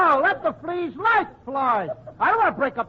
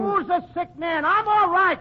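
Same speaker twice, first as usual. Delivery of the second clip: higher-pitched, indignant comeback; indignant protest; 4 semitones higher than usual. Acted. Patient to friend who calls him sick, indignant protest. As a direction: protest that you are perfectly fine. Bristles at being called sick.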